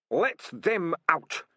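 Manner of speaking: high, loud, slow rat shout. A narrator's reading. Hammond Pork shouting up at Keith, loud and high. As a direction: yell it up at him. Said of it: "he shouted up to Keith".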